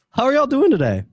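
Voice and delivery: cheerful. Real, not acted. Host cheerful question to guests.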